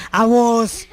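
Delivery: scornful disbelief. Acted. Relative hearing of someone's singing privilege, incredulous and belittling. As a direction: act out a belittling relative, pitch shooting up at the end. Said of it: "Así, ¿verdad?".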